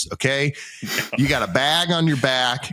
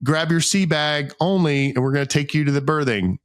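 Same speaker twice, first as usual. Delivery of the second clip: raised-pitch imitation of a briefing; mock instructions; 3 semitones higher than usual. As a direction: reel off the steps like an organizer. Imitates staff reeling off boarding procedure.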